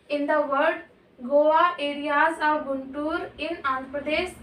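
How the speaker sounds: reading the notes aloud, word by word, very slow; measured dictation pace; slow textbook reading. Acted. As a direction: dictate it slowly to the class. Reads textbook line slowly to class.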